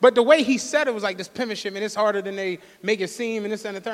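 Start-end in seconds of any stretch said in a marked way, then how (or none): 1.2-3.4 softly imitating an offhand businessman; casual matter-of-fact. Friend describing pimping as his new business, casually matter-of-fact. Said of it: "said it like he opened up a PetSmart".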